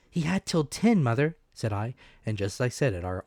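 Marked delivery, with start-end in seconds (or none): 0.1-1.4 put-on higher, louder, urgent boy; young Jim's voice. A narrator's reading. Jim telling his mother the time, higher and louder. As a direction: blurt the good news to mother.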